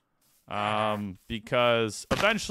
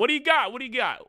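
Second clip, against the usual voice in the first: high teasing sing-song, much higher; silly taunting voice; 10 semitones higher, faster than usual. Pretend. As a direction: poke fun at the villager in a silly high voice.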